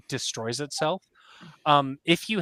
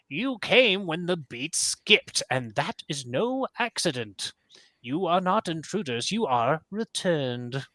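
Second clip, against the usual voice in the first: put-on slow, solemn old rabbit's pronouncement; slow and grave, like an omen; solemn prophecy; 3 semitones higher, slower than usual. Ancient Glowkeeper pointing at Krathor, slow and solemn.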